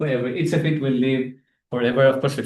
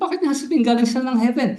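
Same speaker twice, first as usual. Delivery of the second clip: indignant Jews; 7 semitones higher, faster than usual. Retold or imitated. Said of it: "Nagalit yung mga Hudyo".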